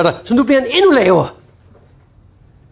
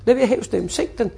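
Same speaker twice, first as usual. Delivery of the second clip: lowered voice; 5 dB quieter than usual. Shown as a demonstration. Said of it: "Bare sænk stemmen".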